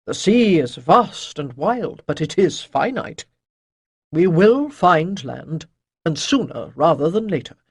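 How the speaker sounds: lightly voiced priest, emphatic and assured; reassuring priest. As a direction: counsel young listeners with wry, weighty confidence.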